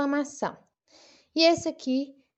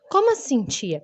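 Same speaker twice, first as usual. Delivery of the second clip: puzzled pupil. Acted. Pupil interrupting the teacher to ask, puzzled.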